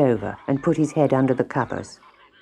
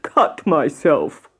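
slow, put-on frog whine; whining frog; much slower than usual. A narrator's reading. Frog afraid to cut the bread, slow whine. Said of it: "whined the Frog".

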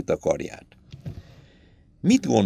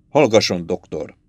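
mildly irritated; 4 semitones lower than usual. Acted. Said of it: "enyhe ingerültséggel a kapitány".

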